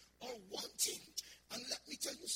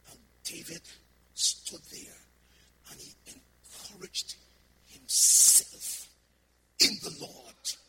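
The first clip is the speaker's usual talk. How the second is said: rising climax; 12 dB louder, slower than usual. Acted. Climax of David story.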